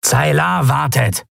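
high, drawn-out reminder; calling out. A narrator's reading. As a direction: call a comrade off the prisoner. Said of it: "rief Kratergesicht". (hoch und gedehnt gerufen)

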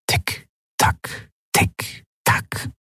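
whispered tick-tock; clock ticking. Acted. (geflüstertes Ticken der Standuhr)

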